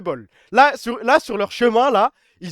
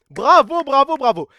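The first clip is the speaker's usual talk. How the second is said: sarcastic bravo; 6 semitones higher, 9 dB louder, slower than usual. Real, not acted. Sarcastic applause again.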